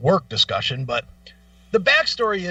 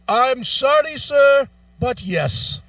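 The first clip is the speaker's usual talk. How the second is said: mock polite rep; 6 semitones higher, 4 dB louder, slower than usual. Mimicking rep's polite refusal.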